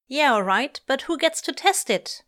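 loud, then rising high question; demanding. A narrator's reading. Pepper impatient to try the slide, demanding. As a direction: demand it, climbing in pitch. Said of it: "Pepper demands".

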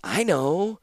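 high-pitched, unruffled reply; mildly airy calm, unfazed by defiance. Acted. Captor answers the defiant prisoner, lightly calm. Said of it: "said Ashnod calmly".

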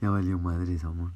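lazy stoner voice. Real, not acted. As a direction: talk like a stoned guy. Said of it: "Esta es mi voz de marihuanote".

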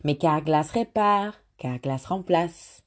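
recited French ad jingle; French ad slogan. Retold or imitated. Speaker recalling a French ad slogan, in French. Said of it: "I know it in French".

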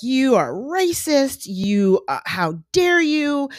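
high, slow, drawn-out mock indignation; mock outrage. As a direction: imitate an offended public scolding someone. Imagined public outrage at TV host.

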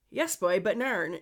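light attempt at Newfoundland accent; Newfie accent. Shown as a demonstration. Podcaster repeating a phrase before translating it, light Newfie accent. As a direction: say it in a hint of Newfie. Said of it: "trying to do a Newfie accent".

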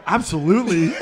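absolutely with a chuckle; laughing absolutely. Retold or imitated. Teammate agreeing, laughing absolutely. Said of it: "you go".

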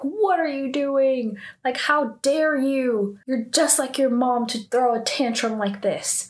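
indignant telling-off without real screaming; retold angry scream. Sejin screams at a girl throwing a tantrum, mild mock yell. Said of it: "Sejin then screams at her".

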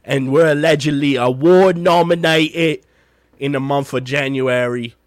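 lightly put-on Cockney London podcast host; playful mock Cockney London intro; Cockney London accent. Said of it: "do the intro with a bit of a Cockney London accent".

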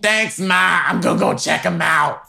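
high eager son answering mom. Pretend. Son answering his mother.

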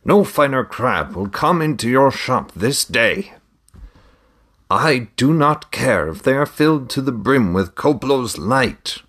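trader voice. A narrator's reading. Trader haggling over crab prices.

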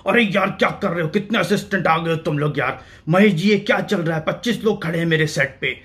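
lightly voiced exasperated film producer; a touch of a boss's irritated scolding; imitating stern producer. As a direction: grumble at the crew like a stern producer, lightly done. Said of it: "उनकी बात करने का अपना एक style था".

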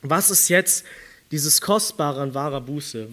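ordinary delivery

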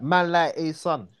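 a little confidence and swagger; cool, confident slang. Shown as a demonstration. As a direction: say it with a little attitude. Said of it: "a little swagger".

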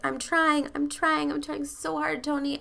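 high-pitched imitation of a crying woman; mock tearful pleading. Woman in a mess pleading with her coach, mock tearful. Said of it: "she's crying and she's a mess".

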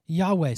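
"Yahweh" said YAH-way, two syllables, falling; "Yahweh" spoken clearly, YAH-way; saying the name. Shown as a demonstration. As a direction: pronounce "Yahweh" as YAH-way, stress on the first part. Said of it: "we would say this as".

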